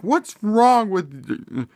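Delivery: high, drawn-out mock outrage from an angry mom; imitating freaking-out mom. Vlogger imitating the mom freaking out at her son, high and drawn out. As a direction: stretch it out slowly, way up high, like a mom losing it. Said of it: "she's, like, freaking out".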